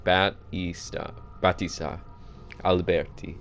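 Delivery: put-on Italian-accented reading of the names. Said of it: "Yes, I'm doing an accent".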